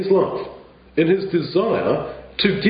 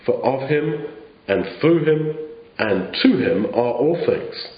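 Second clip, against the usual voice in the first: scripture reading. Acted. Preacher reading Romans to the congregation, solemn scripture reading. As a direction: read the verses as a closing blessing, unhurried. Reads Romans eleven aloud.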